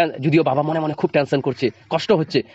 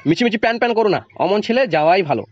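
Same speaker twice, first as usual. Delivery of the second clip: scolding; 3 semitones higher than usual. Acted. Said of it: "ধমক দিয়ে বলেন".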